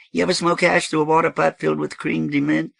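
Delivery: very high, loud, incredulous question; high-pitched, emphatic character voice; animated dope host. Acted. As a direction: ask it high and loud, amazed. Voices Thirteen in story.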